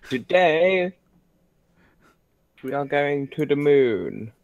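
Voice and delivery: lightly posh announcement; a hint of an upper-class explorer. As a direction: declare it like a mild pompous gent. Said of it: "the posh voice".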